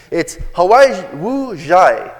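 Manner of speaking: slow, careful attempt at a Korean word; Korean name, butchered. Shown as a demonstration. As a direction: sound out Hawaii Wu Jai slowly, unsure of the Korean. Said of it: "I'm gonna butcher it".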